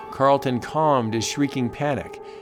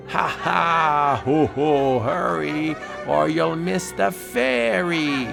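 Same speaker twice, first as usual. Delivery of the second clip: mocking laughter; 4 semitones higher, slower than usual.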